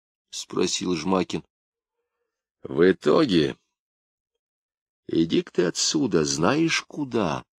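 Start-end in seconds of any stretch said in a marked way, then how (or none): 2.6-3.6 high-pitched, indignant echo of a question; angry echo. A narrator's reading. Gofman throws Zhmakin's question back at him, angrily. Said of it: "Багровее сказал Гофман". 5.1-7.5 high-pitched, contained anger, slowing at the end; angry dismissal. A narrator's reading. Gofman, turning crimson, sends Zhmakin away, angrily. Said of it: "Багровее сказал Гофман".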